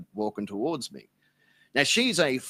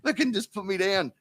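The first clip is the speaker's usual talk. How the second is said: mock begging; 6 semitones higher than usual. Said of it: "literally now begging".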